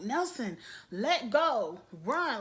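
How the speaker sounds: crowd yelling. Retold or imitated. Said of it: "everyone was yelling like".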